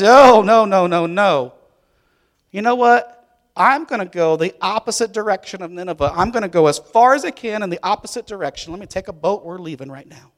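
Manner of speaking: loud high panicky refusal fading to hushed; panicked Jonah running. Acted. Jonah fleeing God's command, panicky then hushed. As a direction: bolt in a panic, then sneak off. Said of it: "and he says".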